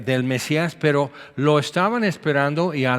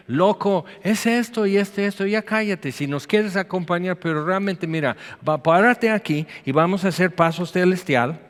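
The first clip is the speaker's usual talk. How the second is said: mocking crowd; 4 semitones higher than usual. Crowd mocking the blind man.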